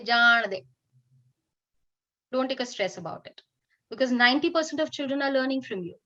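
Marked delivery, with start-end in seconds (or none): 0.0-0.7 dismissive let it go. Shown as a demonstration. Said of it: "put your right hand, flick it, and say".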